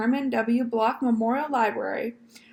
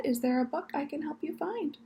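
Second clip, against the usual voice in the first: absent-minded murmur; 4 semitones higher, 5 dB quieter than usual. Acted. Librarian asks, not looking up.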